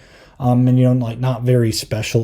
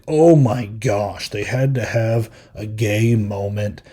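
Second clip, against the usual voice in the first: mock complaining fan; 3 semitones lower, slower than usual. Mocking fans who complain.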